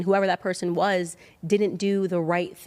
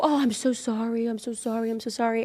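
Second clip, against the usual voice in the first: mock sympathy; 4 semitones higher than usual.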